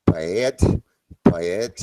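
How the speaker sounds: repeating "Bad" to copy the Kiwi vowel; man copying his friend's Kiwi word, imitating the accent. Shown as a demonstration. Repeating "Bad" in imitation of the Kiwi sound. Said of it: "Say bad".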